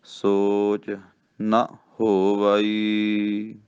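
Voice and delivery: ਨਾ said short as bare "na", no long kanna vowel, very slow; ਨਾ without a long aa. Shown as a demonstration. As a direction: keep ਨਾ short, ਸੋਚ ਨਾ ਹੋਵਈ drawn out. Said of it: "ਇਹਨੂੰ ਨੰਨੇ ਕੰਨਾ ਨਹੀਂ ਲਾਉਣਾ".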